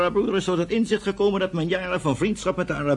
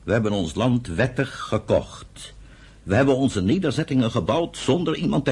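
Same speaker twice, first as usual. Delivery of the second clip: brother calmly defending peaceful settlement; calm, measured reply; 5 semitones lower than usual. Acted. Answering brother's scorn calmly.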